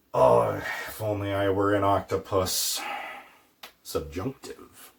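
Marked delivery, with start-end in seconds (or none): 0.1-2.8 mild sigh, longing for the impossible; wistful wish. Shown as a demonstration. Teacher demoing a wistful octopus wish.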